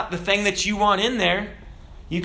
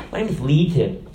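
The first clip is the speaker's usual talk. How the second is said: sweet. Acted. Demon introducing itself to Jesus, all sweet. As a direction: say it as a mock-sweet little demon. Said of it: "all sweet".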